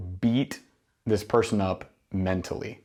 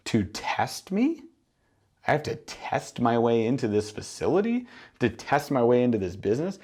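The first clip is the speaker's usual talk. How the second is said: offended customer questioning the nerve of it; affronted prospect. Acted. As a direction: draw it out as an incredulous challenge.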